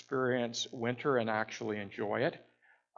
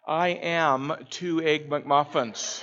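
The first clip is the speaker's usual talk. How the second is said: laughing; 3 semitones higher, 6 dB louder, slower than usual. Real, not acted. Retelling his French blunder.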